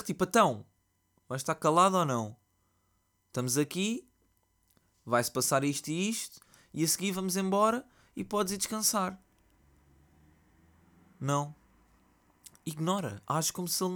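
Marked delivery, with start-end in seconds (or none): 0.2-9.2 higher, louder stern parent yell. Retold or imitated. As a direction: bark at the kid to behave. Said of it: "Manda-lhe um berro".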